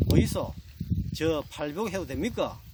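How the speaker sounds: lightly voiced bride with a Gyeongsang accent. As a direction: ask your husband in Gyeongsang dialect intonation. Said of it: "경상도 신부가 이야기합니다". (경상도 사투리로 묻는 신부)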